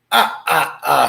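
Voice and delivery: lightly voiced Dracula laugh; a mild mock vampire laugh; hint of a Dracula laugh. A narrator's reading. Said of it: "he laughed like Dracula".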